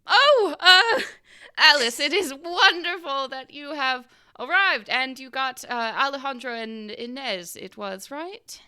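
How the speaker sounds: high, loud society-hostess voice; fluttery tea hostess. Acted. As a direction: greet guests with exaggerated high-pitched delight.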